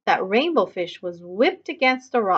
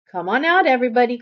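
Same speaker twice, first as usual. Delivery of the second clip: louder call to hidden fish; 3 semitones higher, 5 dB louder, much faster than usual. Acted. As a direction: call them out of hiding. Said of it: "called the scallop".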